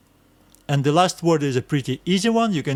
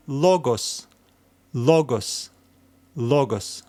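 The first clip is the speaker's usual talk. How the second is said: "Logos" with the first syllable stressed, falling away; slower than usual. Shown as a demonstration. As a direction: read "Logos" as LO-gos, stress up front. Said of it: "we will need to stress this letter".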